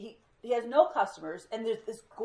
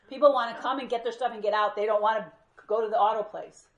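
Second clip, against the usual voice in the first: blunt retort; 7 dB louder than usual. Retold or imitated. Investor rebukes the owner.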